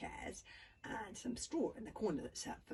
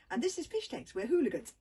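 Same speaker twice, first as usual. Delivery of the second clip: stammering; 4 semitones higher, 11 dB louder than usual. A narrator's reading. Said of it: "stammered Hiccup".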